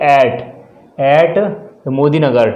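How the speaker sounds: very slow, word-by-word dictation. Shown as a demonstration. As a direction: read it out slowly for copying. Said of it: "teacher dictating the sentence". (शब्द-शब्द धीरे बोलना)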